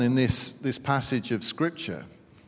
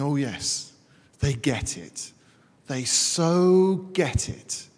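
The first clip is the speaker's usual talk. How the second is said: amused Jesus; slower than usual. Retold or imitated. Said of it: "having a little chuckle to himself".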